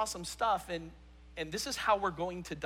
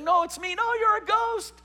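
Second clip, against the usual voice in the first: mock back-and-forth; 12 semitones higher, 5 dB louder than usual. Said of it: "And it's like".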